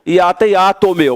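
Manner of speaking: a hint of Paulistano speech; São Paulo accent. Teacher joking how Paulistanos say hiato, light São Paulo accent. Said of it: "Se você é de São Paulo".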